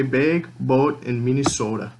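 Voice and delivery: BAG, BOAT and MINNESOTA with long Minnesotan vowels; Minnesotan pronunciation. Shown as a demonstration. Speaker showing words they always say the Minnesotan way, elongated vowels. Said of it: "but I will always say".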